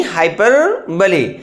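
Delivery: हाइपरबोली slowly, in two parts, ending in "lee"; correct pronunciation, slowed. Shown as a demonstration. Teacher repeating the right form, हाइपरबोली slow and split before "bo-lee". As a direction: break हाइपरबोली into hyper, then bo-lee. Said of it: "इसका जो pronunciation होगा वो है".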